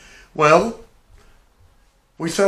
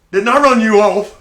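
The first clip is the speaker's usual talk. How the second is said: higher and louder, exasperated; the bully who thought he was rid of him; irritated mock yell; 7 semitones higher, 11 dB louder than usual. Tank annoyed at the return.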